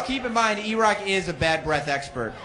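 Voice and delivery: normal talking voice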